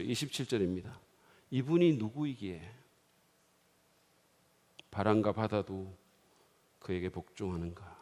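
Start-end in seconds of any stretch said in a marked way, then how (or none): 1.5-8.0 low, soft, fading awe; awed hush. Acted. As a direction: whisper it in amazement. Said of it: "너무너무 놀라서".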